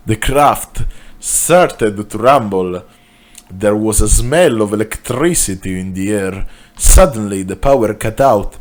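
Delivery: put-on Italian accent on story narration; runaway Italian accent. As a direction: read it with an out-of-control Italian accent. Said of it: "Italian accent has gone out of control".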